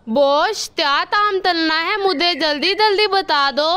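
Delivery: lisped, "अथा दो तल" for "अच्छा तो सर"; lisping crow. Acted. Kalu crow to the doctor, lisping after the surgery. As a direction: say "थाता" with a childlike lisp. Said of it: "ये तुम कैसे बोल रहे हो?".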